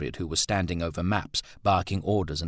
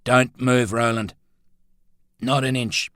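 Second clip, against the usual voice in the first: louder, hard warning; menacing order; 5 semitones higher, 6 dB louder than usual. Acted. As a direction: freeze him with a threat. Threat in the dark shed.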